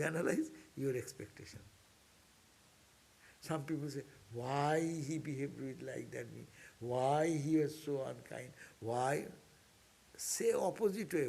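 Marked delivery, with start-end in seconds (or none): 4.3-9.3 slow, drawn-out mock complaint; imitated complaint. Speaker voices people asking why he was unkind, slow complaining. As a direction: voice a hurt questioner, stretching each why.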